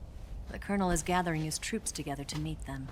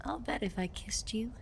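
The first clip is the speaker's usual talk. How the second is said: soft, slowing seductive murmur; flirtatious teasing; 4 dB quieter, slower than usual. Acted. Woman teasing a man about a kiss, flirtatious. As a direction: tease slowly, drawing out the end.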